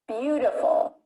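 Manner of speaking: "Beautiful" with a long, strong first syllable, falling after it; exaggerated word stress. Shown as a demonstration. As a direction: overpronounce the opening syllable of "Beautiful". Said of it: "I was exaggerating the stress".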